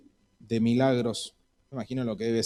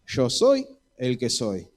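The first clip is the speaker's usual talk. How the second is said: powerful movie God voice; slower than usual. Acted. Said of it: "esa voz potente de las películas".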